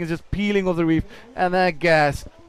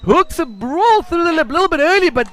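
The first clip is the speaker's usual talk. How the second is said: excited play-by-play; 6 semitones higher than usual. Real, not acted. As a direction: call the ride as it unfolds. Live call of a ride.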